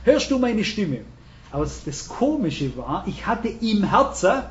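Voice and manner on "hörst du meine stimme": indignant, high-pitched retold rant; retold scolding. Husband complaining to his wife about the brothers, mock scolding. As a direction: grumble as if venting at home, pitched up. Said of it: "Hab geschimpft".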